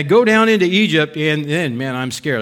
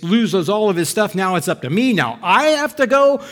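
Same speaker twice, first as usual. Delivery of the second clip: higher, disbelieving gripe; exasperated Abram; 4 semitones higher than usual. Retold or imitated. Abram griping to God about rescuing Lot, exasperated. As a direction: grumble at an unfair task.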